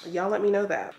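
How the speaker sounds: speaking around whitening strips; with whitening tray. Real, not acted. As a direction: teeth covered by whitening strips. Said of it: "So I sound ridiculous".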